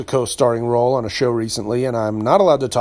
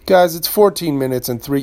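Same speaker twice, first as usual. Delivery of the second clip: DJ voice; 3 semitones higher than usual. Pretend. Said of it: "see, I already broke it".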